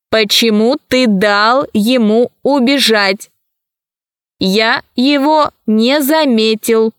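slow, emotionless robot voice. Acted. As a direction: speak like an unfeeling machine. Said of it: "голоса их никаких чувств не выражали". (медленный голос робота без чувств)

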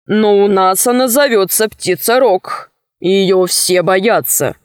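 a touch of a low, measured captain; understated low sailor voice; lightly voiced sea captain. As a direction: answer evenly, pitched a little down. Story figure, Sinbad explains.

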